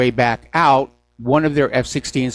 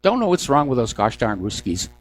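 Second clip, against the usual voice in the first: higher, put-on sneer of a pundit; sarcastic mock media voice; 4 semitones higher than usual. Mocking corporate media line.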